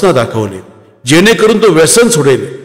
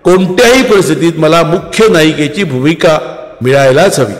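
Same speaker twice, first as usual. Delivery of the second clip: lightly voiced young daughter, raised and insistent; defiant daughter; 3 semitones higher than usual. Jagruti argues with mother. (आईशी हट्टाने वाद घालणारी मुलगी)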